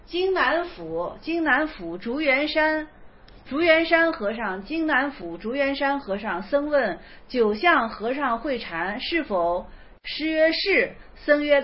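slow, measured reading of classical text; koan reading. Acted. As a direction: read the old koan slowly and evenly. Reads a Zen koan aloud. (缓慢诵读公案)

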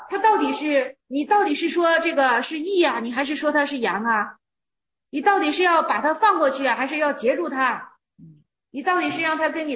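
emphatic challenging questions; pressing challenge. Real, not acted. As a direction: push the question hard at them.

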